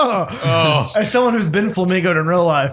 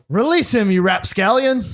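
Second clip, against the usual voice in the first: mild theatrical call-out, slightly raised pitch; acted yell; 3 semitones higher than usual. Player yells at the one pulling his hair, mock indignant yell. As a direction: play at ordering a villain off, no real shouting. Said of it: "I just yell out to the one pulling his hair".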